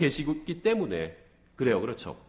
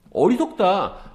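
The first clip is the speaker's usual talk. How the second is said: slow scoff; 3 semitones higher, much slower than usual. Retold or imitated. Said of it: "이런 생각하실 겁니다".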